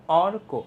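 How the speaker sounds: strong অর, weak কো in অর্ক; stress on first syllable. Shown as a demonstration. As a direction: lean on the অর of অর্ক. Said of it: "আর অরটা অনেক strong".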